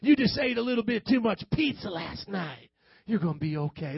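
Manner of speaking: easygoing doctor with falling reassurance; Doctor Feelgood. Acted. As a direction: brush off the patient's worry, soothingly. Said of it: "Doctor Feelgood doesn't want to rattle your cage".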